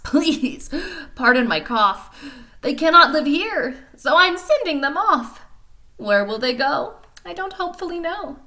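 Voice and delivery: high, loud, scolding creature voice; indignant little Lorax. Acted. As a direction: scold the polluter. Lorax explains leaving.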